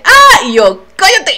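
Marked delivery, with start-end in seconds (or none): 0.0-0.4 much higher, loud shocked cry; sudden excited scream; surprised shriek. Retold or imitated. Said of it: "y le hace". 1.0-1.4 high, sharp "cállate"; a hurried, pushy hush; urgent hush. Retold or imitated. Hushing a friend's shriek.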